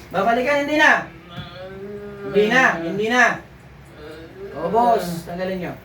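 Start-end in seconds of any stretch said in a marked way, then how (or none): 0.1-3.4 higher, louder firm no; stern refusal. Acted. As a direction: shut the door on the spirit. Healer forbidding the spirit's return.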